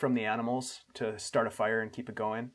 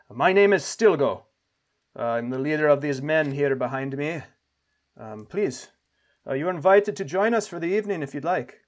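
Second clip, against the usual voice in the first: lightly voiced courteous leader, lifted pitch; welcoming camp leader; 2 semitones higher, 4 dB louder than usual. Camp leader invites travelers to join them, lightly voiced welcome. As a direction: greet strangers as a gracious host, lightly in character.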